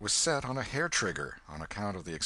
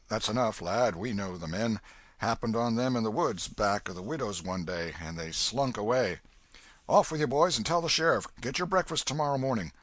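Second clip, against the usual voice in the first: put-on loud old Welshman giving orders; commanding old man; 3 semitones higher, 5 dB louder than usual. Old Welshman orders his sons to fetch the sheriff, loud. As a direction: send the sons off briskly.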